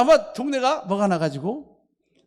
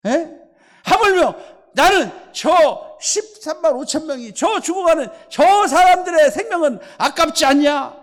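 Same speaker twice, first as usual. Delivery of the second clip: God rebuking; 4 semitones higher, 5 dB louder than usual. Retold or imitated.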